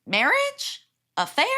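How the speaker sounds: high, eager rapid guesses; eager guessing. Retold or imitated. Friend guessing at a party game, high and eager. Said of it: "My friend on the other team is like".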